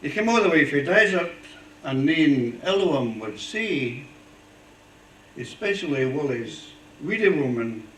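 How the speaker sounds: put-on poem recited in a Fife accent. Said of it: "I have to say it in a Fife accent".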